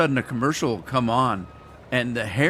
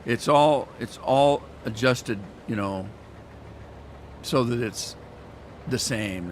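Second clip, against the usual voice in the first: mock TV company; slower than usual. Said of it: "T V companies will tell you".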